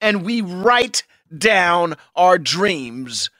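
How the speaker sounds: a hint of a fiery preacher. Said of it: "why do you sound like a preacher all of a sudden".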